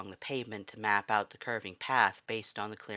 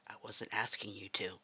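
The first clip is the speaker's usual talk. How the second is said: lower, softer laid-back answer; low calm reply; 3 semitones lower, 8 dB quieter than usual. A narrator's reading. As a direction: answer softly and low, unbothered.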